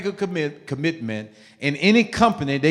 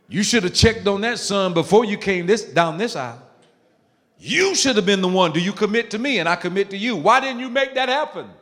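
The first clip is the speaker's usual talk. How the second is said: raised, higher scolding voice; scolding father figure; 6 semitones higher than usual. Retold or imitated. Preacher voicing the bride's father scolding the groom, raised. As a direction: lecture the son from above. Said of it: "He was looking at her strange".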